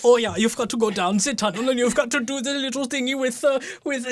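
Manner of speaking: simple Austrian voice; Austrian accent. Acted. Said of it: "when you do that voice".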